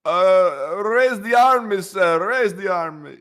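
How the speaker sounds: high, slow hammed-up command; mock leader ordering the army. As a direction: shout the order like a pompous leader. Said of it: "I said".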